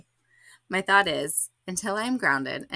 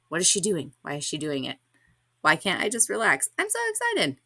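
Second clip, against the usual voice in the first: inner judging voice. Retold or imitated. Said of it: "Frustrated that I felt as though I was judging".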